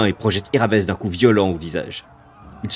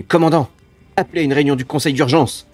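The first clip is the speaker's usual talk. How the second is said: raised, pressing command; urgent order; 6 semitones higher, 5 dB louder than usual. Acted. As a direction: call out in barely held panic.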